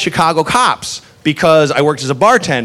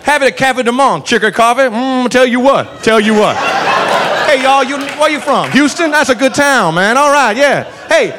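southern tour guide; 5 semitones higher than usual. Retold or imitated. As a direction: give tourist tips calmly while holding someone. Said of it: "proceeds to give us tourist tips".

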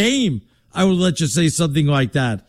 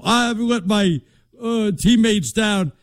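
Southern drawl; 4 semitones higher, slower than usual. Retold or imitated. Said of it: "you're giving him a Southern drawl".

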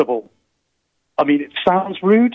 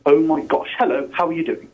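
posh voice. Pretend. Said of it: "I'll put on the posh voice".

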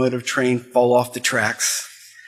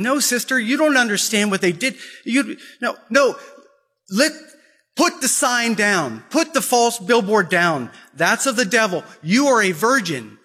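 put-on protesting girl; 6 semitones higher than usual. Girl argues with sister.

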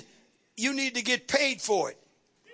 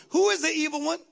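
ordinary talk, nothing marked

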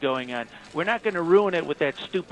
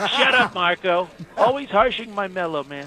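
mock snap. Trump snaps at Rubio.

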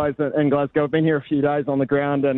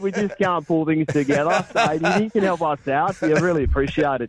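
put-on Australian accent; 3 semitones higher than usual. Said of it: "Do that in an Australian accent".

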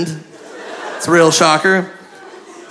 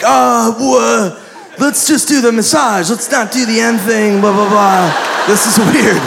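panicked pleading; 5 semitones higher than usual. Retold or imitated. Panicked plea to masseuse.

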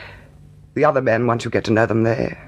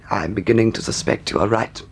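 lower, reluctant concession; resigned; 6 semitones lower than usual. Acted. Gentleman giving in to the bailiff, resigned. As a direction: concede with sinking spirits.

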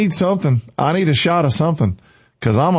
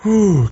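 short, high whew; winded, fired-up whew; 4 semitones higher than usual. Real, not acted. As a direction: blow off steam with a quick "whew". Pauses after fired-up preaching.

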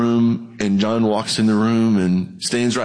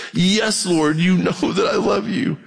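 earnest plea; 6 semitones higher than usual. Retold or imitated. Peter pleading with Jesus, a raised earnest cry. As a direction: call it out, pleading to be believed. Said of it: "He said to him".

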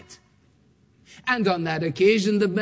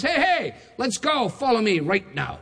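stranger calling; 3 semitones higher than usual. Retold or imitated. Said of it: "some chap comes down the road and says".

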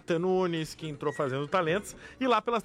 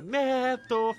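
crowd shout; 6 semitones higher than usual. Retold or imitated. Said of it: "a plateia gritou".

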